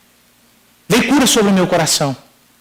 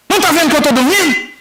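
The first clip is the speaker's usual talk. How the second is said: higher-pitched irritated retort, acted out; annoyed father; 7 semitones higher than usual. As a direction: imitate a grumpy father woken up. Woken father snaps at son.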